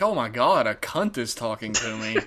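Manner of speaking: low-key mimicry of the actor's English accent; imitated English accent. Actor meeting podcaster, lightly imitated English accent. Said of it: "Is he gonna talk like that".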